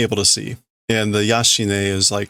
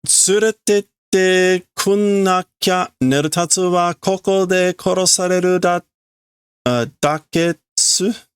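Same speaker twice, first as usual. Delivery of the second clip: put-on high childish girl voice; voicing Nel; 7 semitones higher than usual. Little girl begging to be taken along, high voice. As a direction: read it as a small pleading girl. Reading Nel's lines in Japanese.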